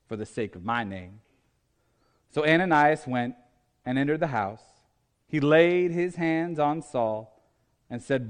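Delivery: solemn, unhurried scripture narration; Scripture reading. Acted. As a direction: read the Bible passage with measured pauses. Reads Scripture aloud.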